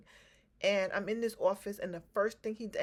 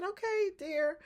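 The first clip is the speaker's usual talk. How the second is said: imitating the therapist; 10 semitones higher, slower than usual. Voicing the therapy lady.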